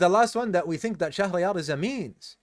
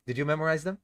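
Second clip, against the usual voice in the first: soft, tired question; a weary, low-energy check on the class; tired ask; 3 semitones lower, 6 dB quieter, faster than usual. Real, not acted. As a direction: ask it quietly, worn out. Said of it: "You can tell I'm tired".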